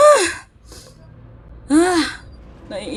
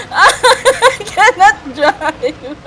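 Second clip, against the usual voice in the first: very slow, laughing through the words; helpless laughter; 3 semitones higher, much slower than usual. Real, not acted. Driver admitting defeat, laughing helplessly. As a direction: drag it out while collapsing in laughs.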